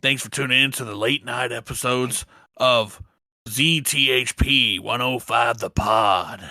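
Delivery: gruff late night radio host; low radio announcer read. Pretend. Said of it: "that's my new radio voice".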